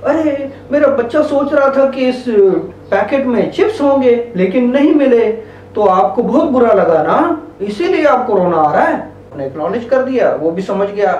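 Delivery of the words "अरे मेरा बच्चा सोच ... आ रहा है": sympathetic acknowledging. Shown as a demonstration. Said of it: "मैं आपको बयान करता हूँ".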